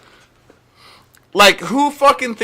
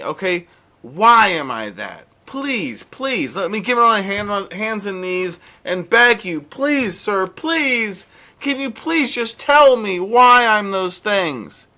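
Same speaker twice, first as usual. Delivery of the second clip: mildly higher pleading voice, lightly hammed-up; mock begging; 4 semitones higher, slower than usual. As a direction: beg him with put-on humility. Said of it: "I beg them to explain to me".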